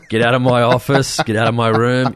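mock angry boss firing someone; hammed-up furious boss; gravelly old tycoon. Joking firing co-host as boss.

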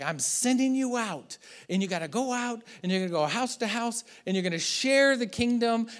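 mildly acted rallying send-off; Gesù che invia i discepoli. Preacher voices Jesus sending out disciples.

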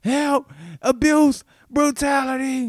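high, loud cries of abuse; screaming. Retold or imitated. Dragged shoplifter shrieks abuse at the guards, high and loud. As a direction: shriek it like the victim. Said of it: "He's screaming".

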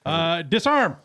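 words around a wad of chew; chewing tobacco. Real, not acted. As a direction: mouth full of chew. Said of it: "I also have a big wad of chew in my mouth".

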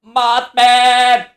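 high bleating cry of the name; goat-like Mothman call. Pretend. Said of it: "Why does he sound like a goat?".

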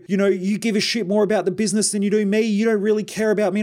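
high, put-on voice of the complaining partner; voicing his partner's accusation, pitched high; mock partner voice.

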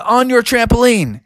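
high, daredevil hero voice; high-pitched storybook character; Bubby the daredevil. Acted. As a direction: pitch him up high, like a plucky cartoon hero.

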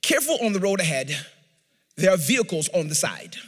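lightly imitated British satnav voice; British GPS voice. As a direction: give the alert like a British navigation assistant. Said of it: "She speaks just like that".

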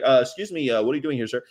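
hesitant, courteous officer's question; imitated polite cop. Cop approaching a driver, mock-polite hesitant inquiry. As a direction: ease into the question respectfully. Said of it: "They used to talk like that to me".

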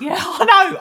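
laughing out loud through the words. Real, not acted. Co-host laughs loudly, agreeing with his partner. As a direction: crack up mid-line. Co-hosts joking about Sam.

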